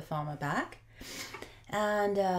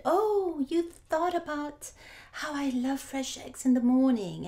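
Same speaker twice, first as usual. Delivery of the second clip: delighted wife; 7 semitones higher than usual. Acted. Wife thrilled about fresh eggs, starting high. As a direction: squeal with happy surprise.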